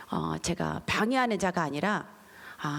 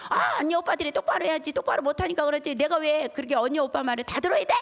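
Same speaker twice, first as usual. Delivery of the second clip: higher, sassy retort; talking back; 6 semitones higher than usual. Retold or imitated. Defiant youngest daughter answering her mother back, higher and sassy. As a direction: snap back like a defiant kid.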